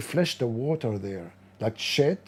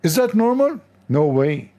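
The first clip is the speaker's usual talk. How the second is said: mock astonishment; 4 semitones higher, 4 dB louder than usual.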